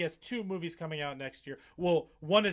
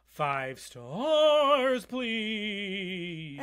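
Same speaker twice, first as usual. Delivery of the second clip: excited plea; 5 semitones higher, 6 dB louder, much slower than usual. Real, not acted. Podcast outro plea.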